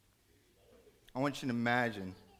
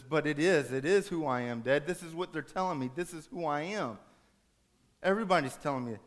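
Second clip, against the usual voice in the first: put-on higher-pitched, protesting teen; mildly acted desperate insistence; insistent son; 4 semitones higher, 4 dB louder than usual. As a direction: argue back, pleading to be believed. Son argues back with his dad.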